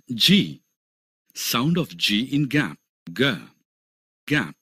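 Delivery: each vowel sound said very slowly and clearly; slow phonics drill. Shown as a demonstration. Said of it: "देखते हैं consonants की ध्वनियों". (धीमा, साफ़ उच्चारण अभ्यास)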